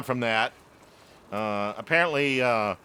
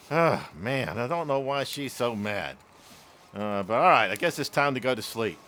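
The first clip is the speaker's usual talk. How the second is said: put-on low, subdued boy giving in; mock resignation; 4 semitones lower than usual. Scolded boys settling into bed, mock resigned. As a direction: sigh it out as a chastened kid.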